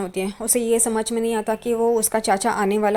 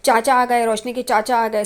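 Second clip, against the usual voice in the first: mock excited calling out. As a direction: call out half-heartedly that the uncle has come. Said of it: "वो चिल्लाना शुरू कर देती है".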